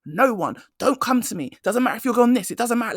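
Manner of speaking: mock-strict boss shutting everyone down; laying down the law. Boss warning staff off pay requests, laying down the law. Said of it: "really laid down the law".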